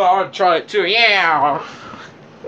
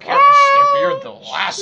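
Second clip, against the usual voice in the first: shouting. Real, not acted. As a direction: yell across the room. Yelling at someone off camera.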